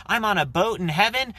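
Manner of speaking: very high, gleeful squeal; pitched-way-up mock rapture; super excited. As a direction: burst out like a thrilled kid on a boat. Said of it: "super excited and you're like".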